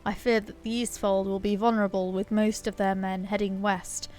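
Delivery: lightly voiced noble commander; earnest quest-giver. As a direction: urge the hero to ride.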